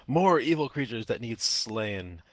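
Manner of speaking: half-hearted kobold war cry, drawn out slowly; slow, restrained yell to rally against evil; mock battle scream. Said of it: "hear the kobold from where you are screaming out".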